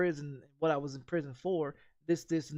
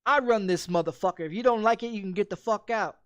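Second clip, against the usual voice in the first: loud, hard retold threat; retold angry yell; 3 semitones higher, 5 dB louder than usual. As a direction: bark it at the freeloading brother-in-law. Retold threat to brother-in-law.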